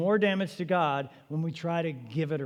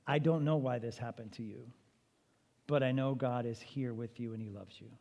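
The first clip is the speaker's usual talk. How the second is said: comforting reassurance; 3 semitones lower, 4 dB quieter than usual. Shown as a demonstration. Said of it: "we've got to say two things".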